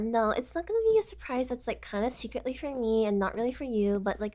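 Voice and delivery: ordinary delivery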